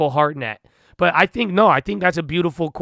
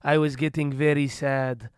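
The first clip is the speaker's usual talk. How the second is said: imitating mom. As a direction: lightly voice mom confessing she was sad. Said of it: "She was like".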